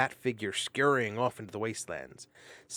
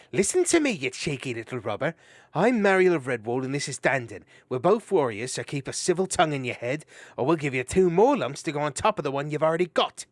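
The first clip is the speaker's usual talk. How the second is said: stern warning; 5 semitones higher, 7 dB louder than usual. Acted.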